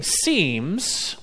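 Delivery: seems drawn out and lifted, rising at its end; stress on seems. Shown as a demonstration. Preacher to his congregation, casting doubt: seems stressed and rising. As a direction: lean on the word seems, let it hang. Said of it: "and I'm stressing that word seems".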